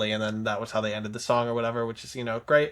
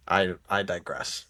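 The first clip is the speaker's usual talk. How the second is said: whispered aside; 6 semitones lower than usual. Real, not acted. Trailing off after tangent.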